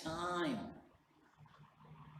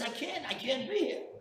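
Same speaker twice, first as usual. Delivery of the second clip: raised, high-pitched insistence; acted helpless protest; 12 semitones higher, 6 dB louder than usual. Father refusing his son at the door, acted loud protest. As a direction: protest loudly over a wailing child. Father answers pleading child.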